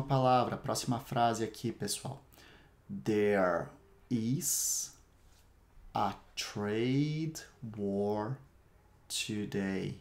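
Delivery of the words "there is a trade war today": slow, split into chunks with pauses; slow drill. Shown as a demonstration. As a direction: lay it out piece by piece. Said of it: "Eu vou repetir cada uma das frases".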